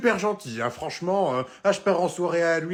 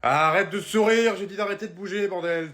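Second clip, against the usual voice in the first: lent, plus fort, agacé; ordre agacé; 4 semitones higher, 4 dB louder than usual. Acted. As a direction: ordonne sèchement d'arrêter. Peintre engueule le client. (ordre agacé du peintre)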